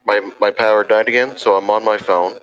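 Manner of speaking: tinny voice over a bad phone line; robotic, choppy phone call sound; phone audio. Real, not acted. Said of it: "now you sound like, yeah, a robot".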